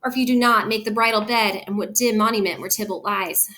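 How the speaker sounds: mildly imploring Juliet, pitched a little up; gently acted Shakespearean plea; pleading. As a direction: read it as a daughter's plea to her mother. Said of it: "asking and pleading her mother".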